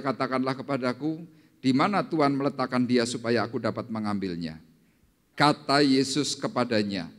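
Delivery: loud, measured Bible reading; scripture reading. Acted. Preacher reads the resurrection story to the congregation, scripture reading. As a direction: read the Gospel out firmly to the hall.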